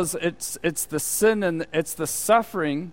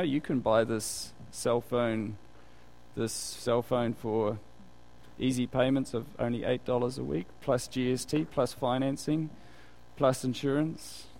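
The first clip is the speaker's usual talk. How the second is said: softer, lightly voiced salesman; sales patter; 2 semitones lower, 6 dB quieter than usual. Seller pitching a cell phone on credit, soft sales patter. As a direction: quietly reel off the offer and add-ons. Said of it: "the person who's gone and said".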